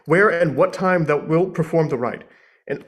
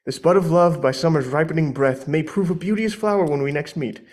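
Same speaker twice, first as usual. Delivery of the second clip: ordinary talk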